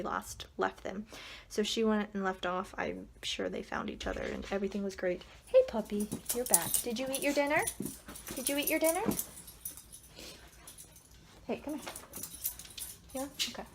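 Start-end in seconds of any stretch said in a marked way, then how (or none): 5.5-13.6 higher, rising coaxing voice; pet talk. Real, not acted. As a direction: ask the puppy sweetly. Talking to her puppy.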